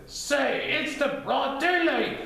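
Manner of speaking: high, bouncy voice, quick in the middle; interrupting Tigger. Acted. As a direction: cut in eagerly. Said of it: "then interrupted".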